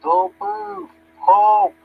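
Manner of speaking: high, loud sentry's challenge; shouted high-pitched military command; yelling Marine. Retold or imitated. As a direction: yell sharp orders to stop someone. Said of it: "sharp Marine sees me and starts yelling".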